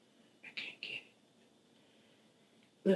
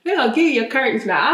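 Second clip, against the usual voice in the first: mom's fired-up reassurance. Retold or imitated. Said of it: "that old black mama kicking".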